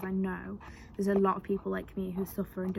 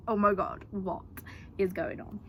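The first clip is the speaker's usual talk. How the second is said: excited. Retold or imitated. Retelling disbelief at the offer.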